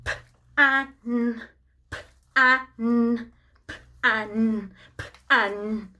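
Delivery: lightly robotic sounding-out, flat and spaced; robot talk. Pretend. Costumed robot gives children a word clue, lightly robotic. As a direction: drone the sounds like a toy robot, only a hint. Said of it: "he can only do his Robotalk".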